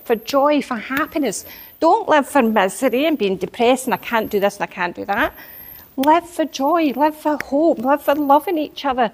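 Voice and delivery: retold preaching. Lecturing family members on living with joy, preachy. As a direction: hammer each phrase like a sermon. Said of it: "you were preaching at them".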